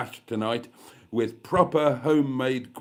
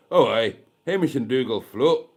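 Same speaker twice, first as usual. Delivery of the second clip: put-on Scottish accent; 5 dB louder than usual. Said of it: "I can't keep up that Scottish accent".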